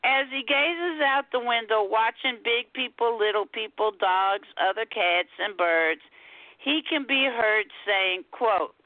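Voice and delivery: measured poetry reading, phrase by phrase; lilting spoken-word storytelling; poem recitation. Acted. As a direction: recite it with deliberate pauses round each quote. Recites her poem about her cat.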